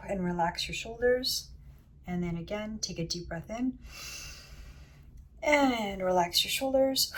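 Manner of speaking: soft, unhurried meditation guide; guided meditation. Acted. Healer guiding listeners inward through breath and heart, guided meditation. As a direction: ease listeners gently into relaxation.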